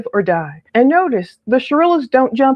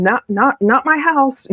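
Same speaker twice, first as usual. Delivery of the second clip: stuttering quote; 3 semitones higher than usual. Retold or imitated. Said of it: "not making fun of his stuttering".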